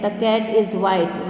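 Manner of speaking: very slow, each word apart; very slow model sentence. Shown as a demonstration. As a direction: dictate it word by word. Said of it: "This is a cat".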